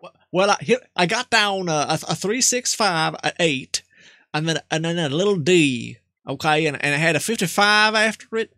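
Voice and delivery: lightly voiced old country man; Jebediah. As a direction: play a nervous rural grandpa. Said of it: "Jebediah might do".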